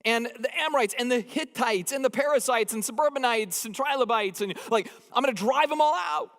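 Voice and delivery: God promising Moses, high and booming. Retold or imitated. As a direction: proclaim it like God listing foes. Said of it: "He says".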